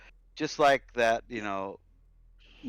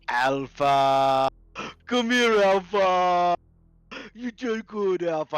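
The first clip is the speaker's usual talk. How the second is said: loud, much higher calls to a dog; excited calling; 8 semitones higher, 10 dB louder, much slower than usual. Acted. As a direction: call the dog with big joy.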